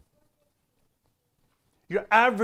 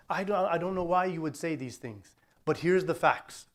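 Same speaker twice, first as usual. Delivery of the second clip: softly spoken, unruffled rebuttal; calm; 4 dB quieter than usual. Acted. Modelling a debater who stays with the facts, calm. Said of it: "stay in the calm".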